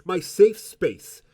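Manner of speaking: slow echoing words into a cup. Real, not acted. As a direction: speak slowly into a cup. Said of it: "He's dying".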